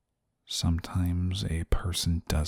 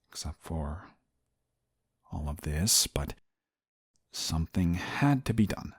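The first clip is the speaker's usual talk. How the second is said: softer, halting confession; sheepish admission; 3 semitones lower, 5 dB quieter than usual. Acted. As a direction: trail into a reluctant, quiet excuse. Sheepish admission of broken rules.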